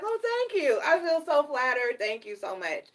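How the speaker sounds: high, gushing thank-you, fading down at the end; mock flattered. To her boss, hammed-up flattered thanks. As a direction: play it up like a flattered lady, then settle. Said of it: "I was like".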